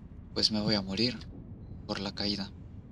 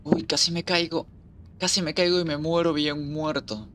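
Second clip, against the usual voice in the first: startled exclaim; 4 semitones higher than usual. Real, not acted. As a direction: gasp it out after a near fall. Nearly falls in game.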